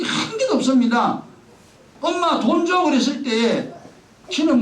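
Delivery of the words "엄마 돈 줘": put-on child asking for money.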